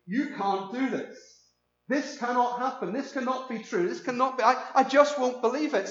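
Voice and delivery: mildly heated, high-pitched disbelief; acted flat refusal to believe. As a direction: play a man stubbornly rejecting the news. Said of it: "he was showing incredible unbelief".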